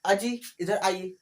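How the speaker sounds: slow, polite summons; unhurried respectful summons; polite call, slow. Shown as a demonstration. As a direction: call someone over respectfully. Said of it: "इस तरह बोलते हैं".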